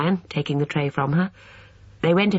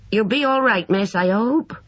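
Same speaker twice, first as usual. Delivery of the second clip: gentle, higher concerned housekeeper asking; solicitous; 8 semitones higher, 3 dB louder than usual. A narrator's reading. Housekeeper kindly checks on Lucy, solicitous. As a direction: ask kindly, checking she's alright. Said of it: "she asked solicitously".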